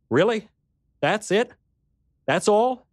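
high, pleading questions; incredulous, fighting back tears; tearful disbelief. Acted.

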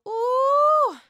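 high loud ooh; a dramatic rising ooh of shock; drawn-out gasp of drama. Real, not acted. Dramatic reaction to Giselle.

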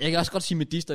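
"medister" said the standard way, me-DIS-ter; standard stress. Shown as a demonstration. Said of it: "hvis du trigger dig".

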